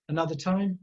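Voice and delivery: "Another time?" lifted only partway at the end, not quite a question; half question. A narrator's reading. The man asks Tyler about another date, tune stopping short of a question. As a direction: let "time" rise a little and stop short. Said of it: "it stops just short of a question".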